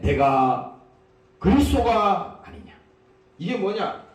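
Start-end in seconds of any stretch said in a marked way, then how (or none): 0.0-2.7 sarcastic taunt. Acted. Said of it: "비꼬는 말입니다".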